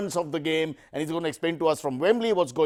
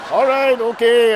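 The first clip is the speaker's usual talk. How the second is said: slow, louder, laughing all right; 7 semitones higher, 8 dB louder, slower than usual. Real, not acted. Host reacting to guest's joke, laughing it off. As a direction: chuckle through it, loud and slow.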